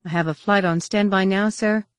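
dutiful military reply; formal. A narrator's reading. Yage answering Luke immediately, formal. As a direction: report readiness to a superior. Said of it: "picking up on the more formal tone".

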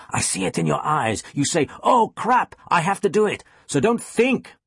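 put-on intense, high-pitched Danish accent; Jensen, Danish accent. A narrator's reading. Teacher leaning in to push student, intense Danish accent. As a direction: urge it on in a thick Danish accent. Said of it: "in his thick Danish accent".

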